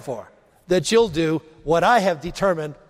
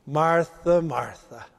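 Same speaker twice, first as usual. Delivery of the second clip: tender, much softer call of her name; gently calm a stressed friend; Jesus softly calling Martha's name, full of compassion; endearing; 5 semitones lower, 4 dB quieter, slower than usual. Acted. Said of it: "It's endearing. It's full of compassion".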